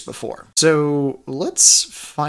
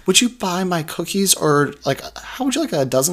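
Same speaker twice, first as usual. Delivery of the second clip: lightly voiced cookie seller, higher pitched; a hint of a higher sales-pitch voice; mock fundraiser pitch; 6 semitones higher than usual. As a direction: pitch it like a hopeful door-to-door seller. Mimics fundraiser sellers making their pitch.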